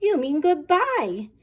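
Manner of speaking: put-on amused children. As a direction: tease the teacher like giggling pupils. Children correct teacher.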